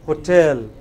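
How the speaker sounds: Hotel with a strong -tel; stress on final syllable. Shown as a demonstration. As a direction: punch the last syllable of Hotel. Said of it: "where stress is on the final syllable".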